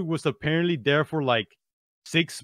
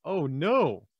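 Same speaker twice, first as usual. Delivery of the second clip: mock surprise; slower than usual. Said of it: "he did this meme where he's like".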